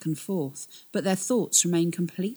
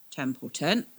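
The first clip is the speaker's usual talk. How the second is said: Templeton drawn out slow and musing; slowly. Acted. Captain slowly weighs the name Nan just said. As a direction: let Templeton hang, slowly, thinking. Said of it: "Mace said slowly".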